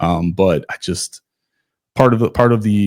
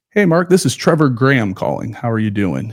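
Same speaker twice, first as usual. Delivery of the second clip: higher, upbeat phone hello; retold coach's phone greeting; 4 semitones higher than usual. Coach phoning a runner to recruit him, retold upbeat greeting. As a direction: voice a coach introducing himself on a call.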